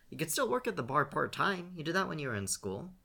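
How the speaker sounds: calling after his brother in the kitchen; called out. A narrator's reading. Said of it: "Scene called after him".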